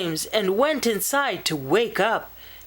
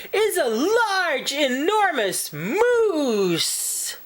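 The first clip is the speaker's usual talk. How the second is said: put-on much higher, eager child voice; boy bursting to tell his mom; excited child; 10 semitones higher, slower than usual. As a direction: blurt out the news. Child excitedly reports moose.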